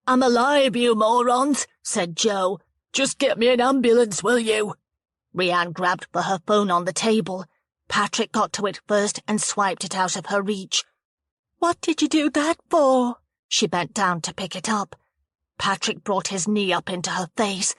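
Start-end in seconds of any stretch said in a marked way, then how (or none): 0.1-4.7 exasperated snap. Acted. Jo snaps at both. 11.6-13.2 indignant cry. Acted. Rianne protests to Patrick.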